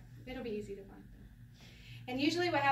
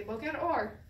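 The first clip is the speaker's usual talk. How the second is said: Israeli reply; slower than usual. Retold or imitated. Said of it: "somebody's gonna say".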